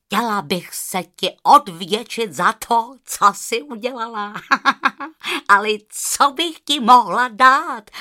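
joyful goose wanting to repay. Acted. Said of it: "ptala se".

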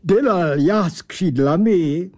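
indignant angel mangling Czech like a German; irked German-accented angel lecturing about wings. Acted. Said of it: "zvolal značně popuzen".

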